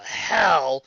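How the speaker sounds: high, loud, slow whine; high-pitched childish whining. Acted. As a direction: whine like a hurt brat. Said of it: "Demikins whined".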